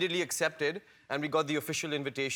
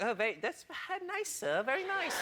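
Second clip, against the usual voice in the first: retold nervousness; 10 semitones higher, 5 dB quieter than usual. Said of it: "now I'm getting really nervous".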